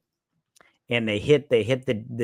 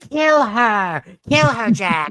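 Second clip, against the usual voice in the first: high, loud imitated battle cry; yelling; 9 semitones higher, 7 dB louder, much slower than usual. Retelling the character urging Jack to kill her, imitated yelling. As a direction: mimic an urgent yell, pitched well up. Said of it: "he's just yelling".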